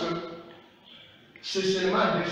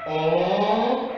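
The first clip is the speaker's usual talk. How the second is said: "On" louder and set apart as the first syllable; first syllable stressed; 3 semitones higher, 4 dB louder than usual. Shown as a demonstration. Teacher isolates the first syllable of onze. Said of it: "première syllabe".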